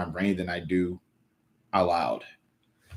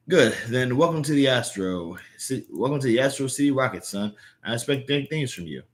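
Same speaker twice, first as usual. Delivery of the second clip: slightly raised reading of an editor; lightly voiced welcoming boss; 5 semitones higher than usual. Boss welcoming new hire to Astro City Rocket, lightly acted.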